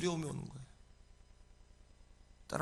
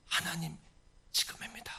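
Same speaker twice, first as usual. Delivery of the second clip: hushed plea. Acted. Praying to God for action now, hushed plea. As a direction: say it under the breath to God. Same plea, first softly.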